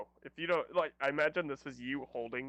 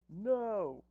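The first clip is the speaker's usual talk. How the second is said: higher, long swooping refusal; dramatic defiance; 6 semitones higher than usual. Acted. Player refuses the dismissive villain, dramatically defiant. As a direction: draw it out like a defiant hero.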